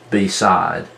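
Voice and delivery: "beside" split into two full syllables, BEE, SIDE; over-enunciate "beside" with a long ee in the first syllable; over-exaggerated pronunciation. Shown as a demonstration. Teacher showing students where the word divides, over-exaggerated "beside" as bee-side. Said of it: "over-exaggerate the pronunciation of it".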